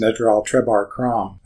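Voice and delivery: name said backwards, slowly; backwards speech. Shown as a demonstration. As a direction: sound out the name in reverse. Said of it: "like my name".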